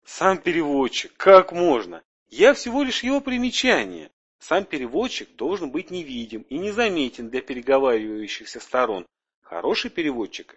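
eager, excited little alien; fussy little alien. Acted. Plays the chubby little alien.

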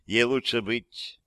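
slow, measured recitation; deliberate, slow poetic delivery; declaiming. A narrator's reading. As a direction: recite it like a line of verse. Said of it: "продекламировала Аманда".

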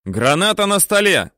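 shouted battlefield report. A narrator's reading. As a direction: yell it back to the gunner. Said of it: "кричит".

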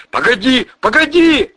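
high, loud frantic yelling; panicked yell. Acted. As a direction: scream to stop him. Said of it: "завопил Михеич". (завопил в панике)

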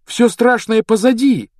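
high, loud jubilation; joyful. Acted. Brother telling sister the horror is over, jubilant. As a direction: proclaim it with glad relief. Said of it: "Рон радостно улыбался".

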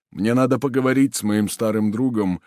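ordinary delivery

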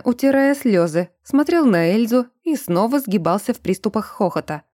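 ordinary delivery

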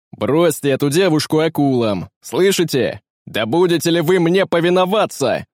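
loud furious bark of orders; angry command shout. A narrator's reading. Pirate captain shouts furious orders at his crew. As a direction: roar at the disobedient crew. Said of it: "крикнул Каин".

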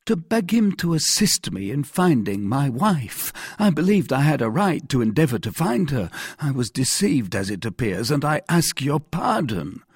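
high, anxious confession; contrite Bonacieux. Acted. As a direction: admit it humbly to the authority. Bonacieux begs pardon.

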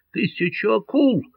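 high excited exclamation; exclaimed oath. A narrator's reading. Кармо удивлённо восклицает. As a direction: Carmaux swears in sudden surprise. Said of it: "воскликнул Кармо".

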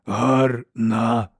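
slow rasping monster voice; harsh cracked giant voice. A narrator's reading. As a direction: drag out each word like a simple-minded brute. Giant speaks.

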